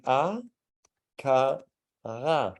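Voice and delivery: "a, ka, ra" with the R from the back of the throat; Danish back R drill. Shown as a demonstration. Teacher demonstrating "a, ka, ra" with a Danish throat R. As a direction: open mouth, then "a, ka, ra" with a throaty Danish R. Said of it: "isolate the R ... by saying".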